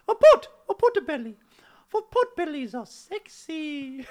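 high shrieking mock woman; excited girlfriend. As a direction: gush over the pot belly. Skit woman exclaims.

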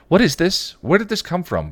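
high, loud demanding voice. A narrator's reading. Buffy demanding answers from Spike, loud. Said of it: "Buffy demanded".

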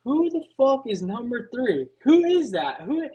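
put-on a teen stunned at the rig, voice climbing; incredulous outburst. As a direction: demand to know who number three is. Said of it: "I'm like".

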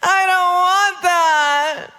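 slow, drawn-out complaint; mock whining refusal. Believer refusing God's correction, mock whining. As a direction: stretch every word in protest.

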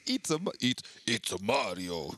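dropping low into a mock Mario line; Vin Diesel. Friend imitating the star as Mario, low mock voice. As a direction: growl it out like a gruff action hero. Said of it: "I could just see Vin Diesel go".

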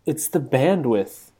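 muffled, distorted line sound; fuzzy voice. Real, not acted. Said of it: "why do you sound so fuzzy".

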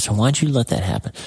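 reliving a mad prayer; mad plea to God. Retold or imitated. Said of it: "I'm mad".

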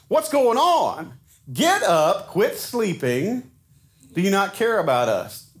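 high, slow, alarmed outcry; alarmed sailors. Retold or imitated. Sailors shouting at sleeping Jonah, high and alarmed. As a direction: jolt him out of sleep.

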